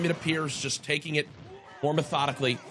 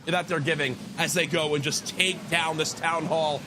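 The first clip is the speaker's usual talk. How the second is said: ordinary talk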